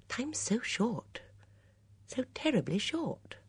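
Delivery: Miss Marple, troubled. A narrator's reading. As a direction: muse regretfully, half to yourself.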